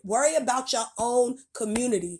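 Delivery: sharp scolding rant; angry rant. Real, not acted. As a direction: tell them off, fed up. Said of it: "That's why I spoke angrily".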